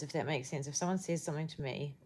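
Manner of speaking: usual speaking voice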